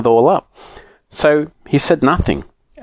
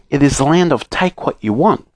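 higher, measured letter-reading voice; reading aloud; 5 semitones higher than usual. A narrator's reading. Note telling children of a wonderful land, reading aloud. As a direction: present the land's name from a note.

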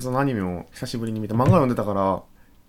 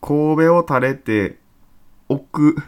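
reciting a line; 5 semitones higher, 7 dB louder, much slower than usual. Retold or imitated. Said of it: "これやん".

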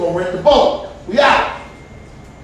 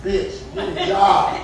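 first, slower take before the shout; slow laughing scold; 2 semitones lower, slower than usual. Acted. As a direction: drag it out with a laugh.

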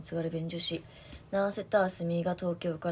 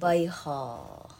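slow repeat; 2 semitones lower, 5 dB louder, much slower than usual. Acted. Repeating dialect word slowly.

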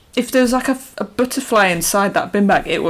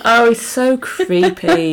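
drawn-out disgust; 6 semitones higher, much slower than usual. Real, not acted. Reacting to creepy scene.

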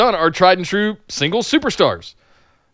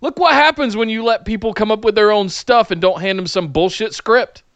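excited; 8 semitones higher than usual. Real, not acted. Raving about the comedy segments.

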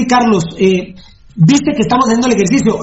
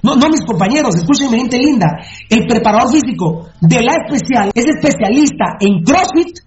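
raised, heated rant; 4 semitones higher than usual. Real, not acted. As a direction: rant it to the crowd, fired up. Ranting about trainers.

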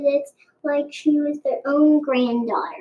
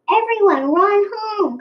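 crying out a warning; 7 semitones higher than usual. A narrator's reading. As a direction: shout the town home in alarm. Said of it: "cried Mimi".

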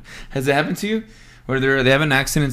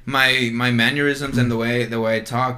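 mock British accent; 4 semitones lower than usual. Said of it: "I don't talk like this".

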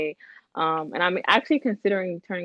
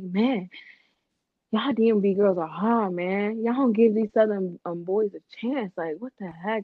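lightly put-on DMV accent. Retelling a date's complaint about local girls, mild DMV accent. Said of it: "I always do this D M V accent".

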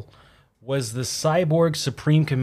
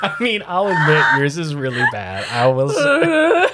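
high, wheezing laugh through words; squeaked out between laughs; 4 semitones higher, 6 dB louder than usual. Real, not acted. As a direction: try to talk while cracking up. Teasing while cracking up.

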